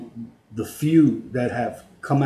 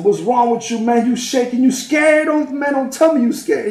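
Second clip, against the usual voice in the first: mocking tease; 10 semitones higher, 4 dB louder than usual. Teasing shaking inmate in line.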